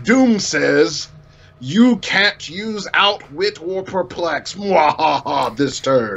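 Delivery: slow, gloating villain with a mock laugh; lightly hammed-up supervillain, slow and smug; mustache twirling villain. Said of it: "somebody that's just like".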